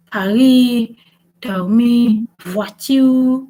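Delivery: Paris, dormir, voiture, each set apart with a French R; Paris, dormir, voiture said French-style; stressed French R. Shown as a demonstration. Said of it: "they will stress on the R".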